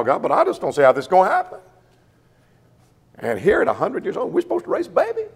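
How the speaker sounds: Abraham lightly voiced, unbelieving; doubting Abraham. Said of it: "Can you imagine Abraham said".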